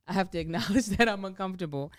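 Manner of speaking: laughing. Real, not acted.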